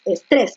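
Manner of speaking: "Estrés" stressed on TRÉS; right stress. Shown as a demonstration. Teacher confirming the correct "Estrés" to the class. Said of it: "dices estrés".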